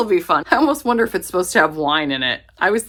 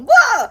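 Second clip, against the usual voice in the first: loud, much higher shocked yelp; startled shriek; 9 dB louder than usual. Retold or imitated. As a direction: yelp like you just lifted a scandalous cover. Everybody's shocked reaction retold.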